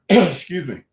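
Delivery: throat clogged, clearing it; a frog in the throat. Real, not acted. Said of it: "I'm gonna get this frog out of my throat".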